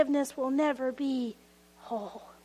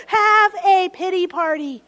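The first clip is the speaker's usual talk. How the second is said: louder emphatic invitation, falling; emphatic call; 2 semitones higher, 7 dB louder than usual. Shown as a demonstration. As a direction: proclaim it boldly.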